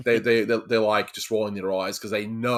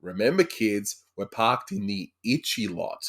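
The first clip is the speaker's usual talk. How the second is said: quoting the show; slower than usual. Retold or imitated. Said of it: "what do I say".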